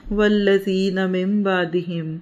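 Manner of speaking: slow, measured Arabic recitation; slow scripture reading in Arabic; Quran recitation. Real, not acted. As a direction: recite the verse with drawn-out vowels.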